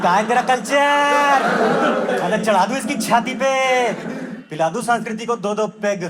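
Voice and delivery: rowdy bravado. Acted. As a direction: sneer like a drunk rowdy. Gurgaon boys boasting drunk.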